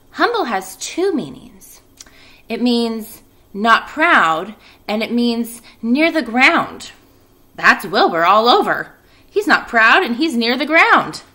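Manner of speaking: Charlotte explaining. Acted. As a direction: lay out each meaning slowly. Charlotte explains word meaning.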